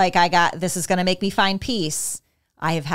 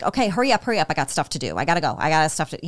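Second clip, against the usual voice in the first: impatient parent; faster than usual. Retold or imitated. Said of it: "not feel like".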